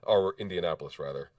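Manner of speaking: hoarse from a cold; husky sick voice. Real, not acted. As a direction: talk through a husky, sick throat. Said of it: "keep that sick voice".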